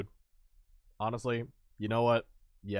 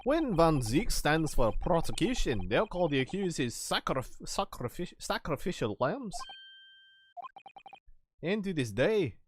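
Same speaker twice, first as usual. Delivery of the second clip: lightly voiced gossip about the feared prosecutor; ominous storyteller; 4 semitones higher than usual. Local warns the lawyer about a deadly prosecutor, ominous. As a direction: tell it as a courtroom legend.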